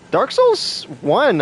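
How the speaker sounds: slow, laughing Dark Souls one. Real, not acted. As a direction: laugh through the words. Laughing while comparing games.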